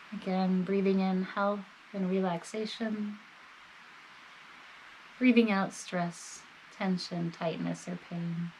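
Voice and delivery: calm, measured body-scan guidance with long pauses; guided meditation. Real, not acted. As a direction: gently guide the listener, leaving space between phrases.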